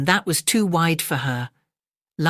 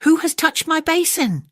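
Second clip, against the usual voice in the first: much higher, louder hammed-up bear cry; a startled bear, pitched way up; father bear growl; 13 semitones higher, 3 dB louder than usual. Father bear discovering his touched basin, high mock cry. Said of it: "Father Bear growled".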